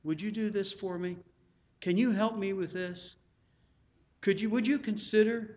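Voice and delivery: ask, don't tell; polite asking. Acted. Pastor asking church members for help, polite request. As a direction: gently put a polite request. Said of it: "You ask people".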